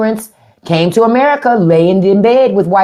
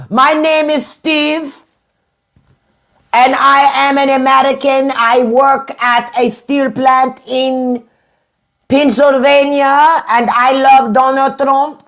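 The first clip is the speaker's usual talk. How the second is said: high, slow, dopey mock voice of a Trump fan; mock MAGA guy; 7 semitones higher, slower than usual. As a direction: play the dumb proud American, slowly. Mocking a MAGA commenter.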